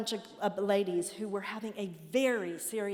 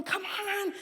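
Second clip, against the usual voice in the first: calling out; 12 semitones higher than usual. Retold or imitated. Calling back to husband riding.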